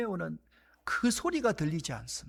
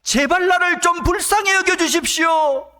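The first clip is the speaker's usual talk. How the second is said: loud pleading cry, much higher; desperate plea; 11 semitones higher, 12 dB louder than usual. Acted. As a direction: beg at the top of your voice. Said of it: "다른 말 하지 않습니다".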